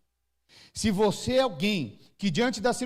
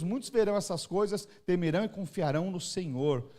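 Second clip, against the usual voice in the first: scripture reading. Acted. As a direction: read the verses with reverence. Reads Psalm 40 aloud.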